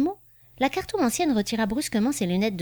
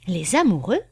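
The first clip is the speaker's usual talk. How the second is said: a mild exclamation, a bit louder; exclaiming; 4 dB louder than usual. Acted. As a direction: cry out the card's name in mild surprise. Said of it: "s'écria la cartomancienne". (exclamation légère, un peu plus forte)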